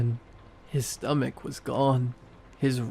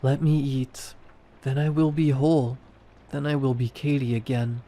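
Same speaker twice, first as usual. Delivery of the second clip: pleading monster. A narrator's reading.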